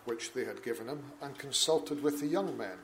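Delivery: measured, solemn Bible reading; formal public reading from the pulpit; scripture reading. Acted. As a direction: read the King James text with steady gravity. Reads scripture aloud in church.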